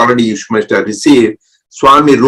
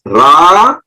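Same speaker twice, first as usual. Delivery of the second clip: syllables spelled out. Shown as a demonstration. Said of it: "it combines two mantras".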